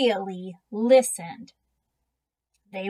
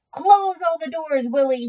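firm order; 8 semitones higher, 6 dB louder than usual. A narrator's reading. Father ordering his son.

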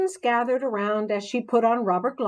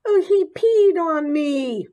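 higher, louder, slow shriek of disgust; 8 semitones higher, 5 dB louder than usual. A narrator's reading. Mandy shrieking after the frog pees on her, loud and high. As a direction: squeal it out, horrified. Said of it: "Mandy shrieked".

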